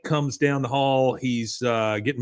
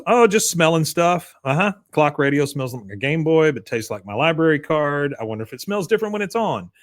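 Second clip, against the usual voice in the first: put-on dreamy kid; 3 semitones higher than usual. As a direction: muse like a spacey kid. Bobby voiced sniffing things.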